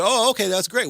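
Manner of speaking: high, loud mock-eager agreement; imitating an easily sold executive; credulous boss. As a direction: play a boss who buys it instantly. Voices the credulous CEO agreeing.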